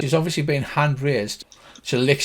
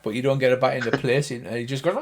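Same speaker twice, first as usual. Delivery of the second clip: ordinary talk, nothing marked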